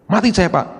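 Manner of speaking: high, loud wail of alarm; mock frightened cry. Frightened man telling the pastor he is finished, mock wailing. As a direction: cry out like you're doomed.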